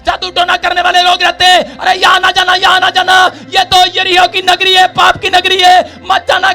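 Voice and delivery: urgent preaching warning. Acted. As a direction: preach it as an urgent plea to turn back. (ज़ोरदार चेतावनी भरा उपदेश)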